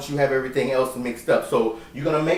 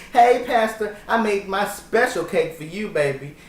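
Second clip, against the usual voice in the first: higher mock-sweet greeting, easing down; playful put-on come-on; flirty churchgoer act; 5 semitones higher than usual. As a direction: lay on the charm for the pastor. Replays the flirty offer to pastor.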